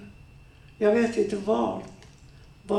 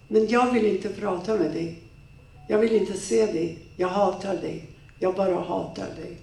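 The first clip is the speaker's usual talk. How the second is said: bitter hatred. Acted. She tells him she hates him.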